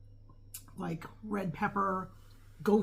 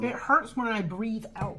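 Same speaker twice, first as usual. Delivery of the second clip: laughing; 3 semitones higher, 5 dB louder than usual. Real, not acted. Laughing about the pain.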